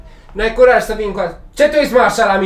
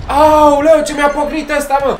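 raised, startled wail of pain; pained outcry; 4 semitones higher than usual. Real, not acted. Boxer just smacked by his opponent, startled pained exclamation. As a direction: cry out as the blow lands. Punched during the match.

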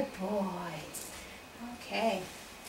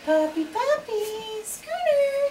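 calling a dog; 6 semitones higher, slower than usual. Real, not acted. Calling the puppy over.

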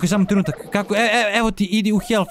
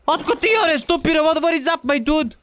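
pitched-up goofy greeting; lightly voiced goofy high voice; silly high voice; 8 semitones higher than usual. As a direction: talk to the dino like a cartoon buddy.

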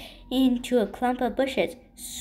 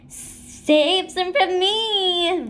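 high, loud, slow crying yelp; yelping plea; 6 semitones higher, 5 dB louder, much slower than usual. A narrator's reading. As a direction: yelp it out, begging for cake. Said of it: "Ronco yelped".

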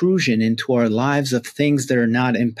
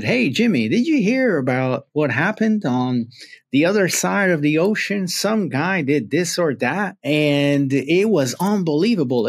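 excited neighbor with a put-on Southern accent; lilting Southern accent, passing on big news; 3 semitones higher than usual. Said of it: "I'm putting on a, a Southern accent".

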